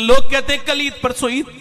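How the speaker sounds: high, loud cry of yearning; emotional outcry. Retold or imitated. Old sheikh answers why he weeps, high loud outcry. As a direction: cry it out with longing.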